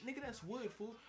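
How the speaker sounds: high, loud protest; alarmed yell. Retold or imitated. Customer complaining about the wrong side of the brush, high yell. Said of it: "I was like".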